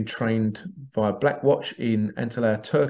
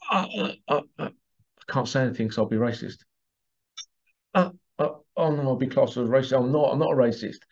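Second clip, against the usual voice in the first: mock panicked mind; faster than usual.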